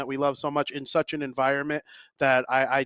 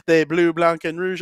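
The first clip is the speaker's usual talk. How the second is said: mock French accent on blue, blanc, and rouge; fake French; 3 semitones higher, 7 dB louder than usual. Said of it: "I like pretending to speak French".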